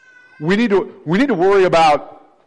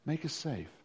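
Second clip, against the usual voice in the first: quiet echo; 18 dB quieter than usual. Shown as a demonstration. Preacher repeating the plea to the church, much softer. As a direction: Make us safe. dropped much softer.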